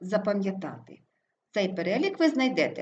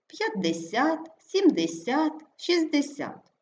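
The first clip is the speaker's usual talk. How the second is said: п'ятдеСЯТ, сімдеСЯТ, шістдеСЯТ, high ringing stress on СЯТ; stress on last syllable; 6 semitones higher, slower than usual. Shown as a demonstration. Teacher illustrating numeral rule, stress on last syllable. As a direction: punch the final СЯТ in each numeral. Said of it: "наголос припадає на останній склад".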